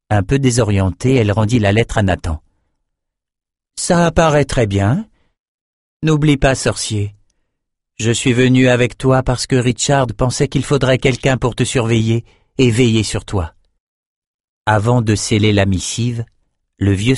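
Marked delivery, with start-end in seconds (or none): 3.7-13.5 higher, cool sorceress voice; a proud sorceress, pitched up; Nicci character voice. Acted. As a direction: speak down to the messenger, icy and sure. Nicci teases Nathan.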